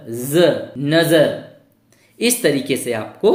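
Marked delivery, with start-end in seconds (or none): 0.1-0.7 ज alone as a buzzed za; nukta z sound. Shown as a demonstration. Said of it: "हम इसको नज़र नहीं पढ़ेंगे". 0.8-1.3 नज़र as nazar, z clearly buzzed; correct nukta z. Shown as a demonstration. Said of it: "हम इसको नज़र नहीं पढ़ेंगे".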